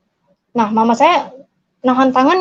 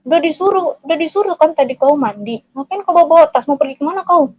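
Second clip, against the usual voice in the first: higher, exasperated telling-off; imitated scolding father; 5 semitones higher, faster than usual. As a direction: act out a dad demanding answers. Angry father scolds in retelling.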